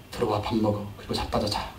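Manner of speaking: low, soft tired mother; motherly scolding. Acted. Mother calling her children to eat, soft motherly grumble. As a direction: mutter it like a weary loving mom. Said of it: "이러는 어머니의 그 사랑".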